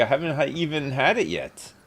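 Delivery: slight lisp, tripping over words; tongue-tied lisp from excitement. Real, not acted. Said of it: "I'm, I'm lisping".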